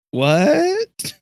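squeaky baffled "what?"; a sudden high, bewildered yelp; confused character blurts out in disbelief. Acted. Character baffled, question marks face.

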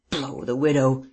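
mutinous growl, mildly voiced. A narrator's reading. Captured man curses the widow, growling. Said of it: "he growled".

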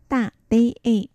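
大 as Mandarin da, unaspirated, falling fourth tone. Shown as a demonstration. Teacher models 大 for learners, unaspirated falling tone. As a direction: drop 大 sharply with no puff of air. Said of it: "無気音四声".

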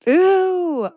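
high, loud coo of approval; delighted. Real, not acted. Host approving the guest's dream pick, loud delighted ooh.

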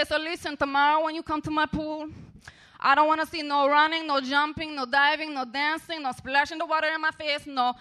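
hammed-up bossy lifeguard reciting her list; imitating the bossy lifeguard with her growing list of rules; mock bossy lifeguard. Rosa listing rules again.

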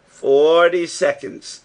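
called loud across the distance; shouting the figure through the rock; calling out. A narrator's reading. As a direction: call it out to be heard far off. Uncle calls result through rock.

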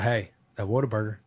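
easy Southern hunting-buddy voice; Colt McCoy Texas voice. Retold or imitated. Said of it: "It's like that Texas voice".

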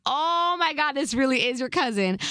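high, drawn "oh my God"; retold amazed realization. Girlfriend discovering it really is his cousin, amazed.

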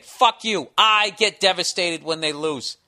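loud, furious profane outburst; swearing tirade. Real, not acted. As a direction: rage at the critics, shouting. Heated rant at imagined critics.

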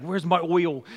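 imitating a Boston accent; lightly mimicked Boston accent on "oil". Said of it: "saying it with a Boston accent".

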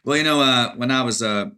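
lightly Southern gentleman dog, slipping up; mock Southern storyteller correcting himself; Jerry. Dog from the Bronx posing as a Tennessean, Southern accent. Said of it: "sometimes he says things like".

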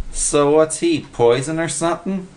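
high, simple-minded questioning; dim Willie. A narrator's reading. Willie asks Freddy about the beetle, puzzled.

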